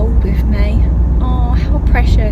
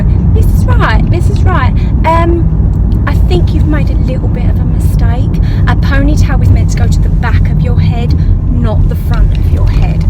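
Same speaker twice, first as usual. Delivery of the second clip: put-on little girl; 3 semitones higher than usual. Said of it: "one little girl come up to me and go".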